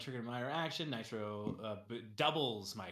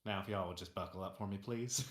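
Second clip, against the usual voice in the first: quick, chirpy flight attendant voice; 2 semitones lower than usual. Acted. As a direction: make the cabin announcement, airline-style. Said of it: "flight attendant voice".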